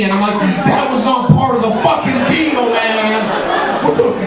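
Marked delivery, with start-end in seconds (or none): 0.7-3.2 protesting. Acted. Acted protest to the other man.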